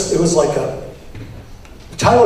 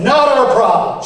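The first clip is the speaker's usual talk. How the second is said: retold yell; 8 semitones higher than usual. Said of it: "She yelled it out".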